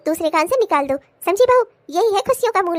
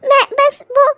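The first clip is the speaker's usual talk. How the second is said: laughing apology; 4 semitones higher, 5 dB louder than usual. Acted.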